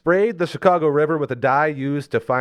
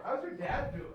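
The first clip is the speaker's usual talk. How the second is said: silly high voice; 13 dB quieter than usual. Pretend. Sudden odd voice question.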